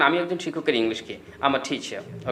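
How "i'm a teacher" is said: soft, lowered British-style 'teacher'; 'teacher' with a light British non-rhotic ending; British accent. Shown as a demonstration. Teacher showing learners how Britons say it, British accent. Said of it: "British আসলে কীভাবে উচ্চারণ করে".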